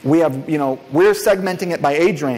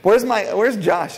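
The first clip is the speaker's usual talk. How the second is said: drawn-out, higher-pitched hail; calling out; 5 semitones higher, slower than usual. Real, not acted. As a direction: greet Tony across the room with stretched syllables. Calls out to Tony in the room.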